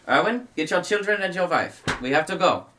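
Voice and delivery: high, loud command; urgent Van Richten. Acted. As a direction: order them out now. GM voices Van Richten urging.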